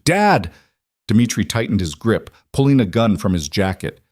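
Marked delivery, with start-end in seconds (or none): 0.0-0.5 high, loud cry for her father; frightened daughter screaming to her dad on seeing him; child's scream. A narrator's reading. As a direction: scream it across the cabin. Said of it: "she screamed".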